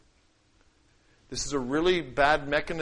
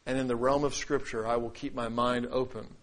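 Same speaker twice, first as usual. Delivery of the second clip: humble; 4 semitones lower than usual. Shown as a demonstration. Preacher showing an open mind toward Scripture, humble and sincere. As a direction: concede it openly, letting the voice sink. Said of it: "Here's how humility sounds".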